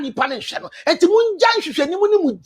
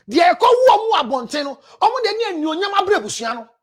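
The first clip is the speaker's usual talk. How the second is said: fiery preaching; 2 semitones higher, faster than usual. Acted. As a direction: drive the point home to the crowd. Preaching in Twi at full force.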